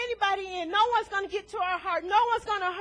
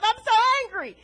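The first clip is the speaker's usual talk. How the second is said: retold angry phone complaint; 4 semitones higher, 5 dB louder than usual. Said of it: "I said".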